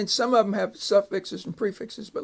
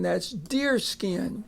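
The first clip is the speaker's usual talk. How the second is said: soft whispered aside; teacher whispering what buckskin means; 5 dB quieter, slower than usual. Shown as a demonstration. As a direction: whisper it like a secret. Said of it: "aside to students".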